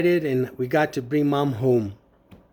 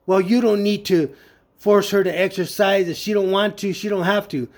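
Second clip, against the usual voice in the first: sister's higher-pitched arguing back; retold argumentative retort; 3 semitones higher than usual. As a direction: argue back insistently, imitating her. Sister argues back in retold quarrel.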